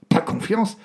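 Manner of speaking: high, loud, disbelieving protest; indignant outburst. Acted. Prisoner told he is not trusted, indignant and loud. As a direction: throw the word back at him in outrage.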